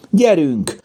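high rallying cry, not a full shout; calling out. A narrator's reading. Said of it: "kiáltotta Mimi".

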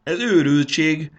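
high, loud, drawn-out wail of dismay; stretched, dismayed outcry; groaned protest. A narrator's reading. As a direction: groan it out in disbelief. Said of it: "nyögte Marci".

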